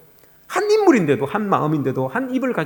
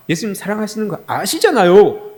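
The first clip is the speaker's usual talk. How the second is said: retold irritated insistence, higher pitched; raised, mildly annoyed appeal; exasperated; 5 semitones higher, 4 dB louder than usual. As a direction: protest as if fed up with being asked. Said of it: "좀 짜증이 난 거예요".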